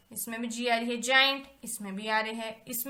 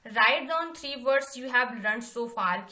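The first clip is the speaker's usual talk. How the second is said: slow dictation; 3 dB louder, much slower than usual. Shown as a demonstration. Reading task aloud to class.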